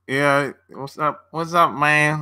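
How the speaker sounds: slow, lazy Midwest greeting in a light put-on accent; lightly ape the Midwest "what's up"; Midwest accent imitation. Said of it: "That's how they talk in the Midwest".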